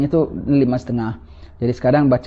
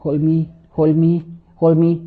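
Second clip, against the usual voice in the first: mock frightened plea; 3 semitones higher, slower than usual. Dying person clinging in fear.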